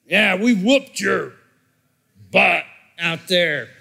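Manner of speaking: mock the jeering drunk behind you; drunk fan yelling. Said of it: "drunk guy ... yells".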